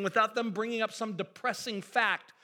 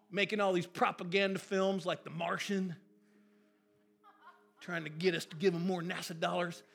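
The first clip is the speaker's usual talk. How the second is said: lightly voiced folksy Texan, half laughing; a bad, hammed-up Bush, trailing into a laugh; poor George Bush imitation. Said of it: "really poor George Bush imitation".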